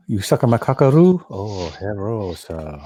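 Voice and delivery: hammed-up mock Asian accent. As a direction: put on a fake Asian accent, drawn out at the end. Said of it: "I'd go up to him like".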